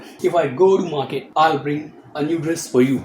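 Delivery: slow, clearly spaced example sentence; slow teaching read. Shown as a demonstration. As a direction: lay out each word slowly for the class. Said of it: "तो पहले वाले को आपने present बना दिया".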